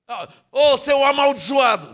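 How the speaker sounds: mock insult, slow and spiteful; spitting out a curse, as the wrong example; cursing, the wrong way. Shown as a demonstration. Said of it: "Não, não fala assim". (xingando em tom de deboche, lentamente)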